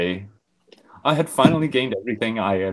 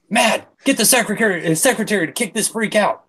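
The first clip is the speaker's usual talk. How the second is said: frowning Jay; 12 semitones higher, 5 dB louder than usual. Acted. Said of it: "Jay frowned".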